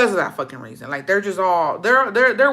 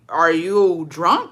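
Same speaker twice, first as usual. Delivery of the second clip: incredulous; 4 dB louder, much slower than usual. Retold or imitated. Incredulous question to drunk cousin.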